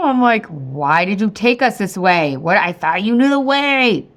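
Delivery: hammed-up marital griping; mad at husband. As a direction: whine an accusation at your husband. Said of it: "get mad at my husband".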